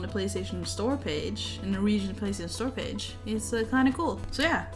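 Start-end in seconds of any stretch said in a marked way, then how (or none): none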